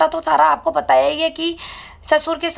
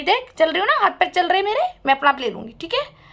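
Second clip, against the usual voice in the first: with attitude; 3 semitones higher than usual. Retold or imitated. Mother-in-law proving to daughter-in-law she can walk, mock haughty attitude. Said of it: "attitude में ही".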